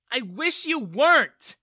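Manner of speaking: loud, high, slowed yell. Acted. Daughter yells at her father, furious. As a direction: hurl it at him at full voice. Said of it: "Bella yelled at him".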